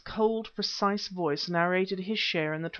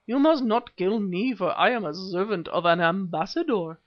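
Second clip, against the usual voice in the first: squeaky voice; 5 dB louder than usual. Acted. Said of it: "he squeaked".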